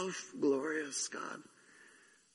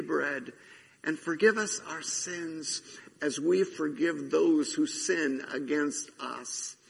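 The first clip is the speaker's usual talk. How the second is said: Lord's Prayer recited. Acted. Pastor leading the congregation in the Lord's Prayer. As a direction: recite it with the room, steady and solemn.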